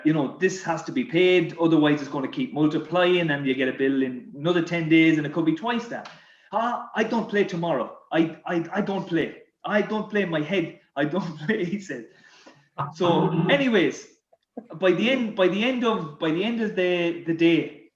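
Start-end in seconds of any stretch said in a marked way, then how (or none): 6.5-11.6 mildly mocked French stubbornness; French accent. French teammate refuses to play tomorrow, stubborn French accent. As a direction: imitate a French teammate digging his heels in. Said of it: "this bill with his French accent".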